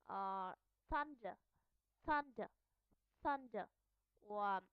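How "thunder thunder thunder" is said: "thunder" opening on a voiceless TH; unvoiced TH. Shown as a demonstration. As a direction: demonstrate "thunder" with an airy TH, no voicing. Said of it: "will be pronounced as unvoiced sound".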